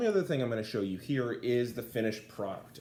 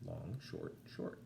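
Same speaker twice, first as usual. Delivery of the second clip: very soft and low "Long, short, short"; dactyl beat, soft; 4 semitones lower, 12 dB quieter, slower than usual. Shown as a demonstration. Teacher quietly marking the dactyl rhythm. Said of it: "So it's gonna be long, short, short".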